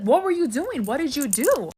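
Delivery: mock-angry brother, pitch jumping up; increasingly angry. Brother grills mom on what she did, mildly angry. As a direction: question her like an annoyed son. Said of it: "my brother's getting increasingly angry".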